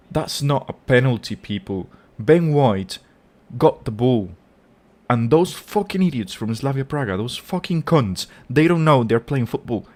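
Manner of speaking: real anger. Real, not acted. Fan raging at a penalty given against his team, furious. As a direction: spit it out at the idiots who dove. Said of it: "I'm so angry about it".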